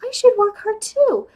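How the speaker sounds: lightly imitated sweet, naive lecture; mildly mock a naive do-gooder, lifting at the end; gently put-on sugary earnestness; Andy's sweet naive voice. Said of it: "very sweet, like, naive voice".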